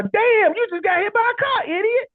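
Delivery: high-pitched mocking jab at someone hit by a car; blunt mock remark. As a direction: toss it off like a rude local. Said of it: "Somebody get hit by a car".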